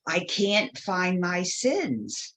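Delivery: put-on slow, drawn-out childlike wail, understated; mildly plaintive child, retold; imitated tearful child. Crying child confesses to nun, mildly plaintive. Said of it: "I start crying, like I'm crying really hard".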